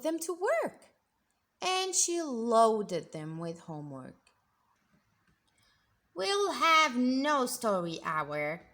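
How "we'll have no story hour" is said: slow, loud stern decree; strict teacher. Acted. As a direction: lay down the law. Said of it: "said Miss Swamp".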